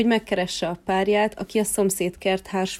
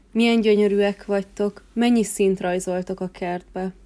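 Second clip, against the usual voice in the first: delighted exclaiming. Acted. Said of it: "kiáltott fel".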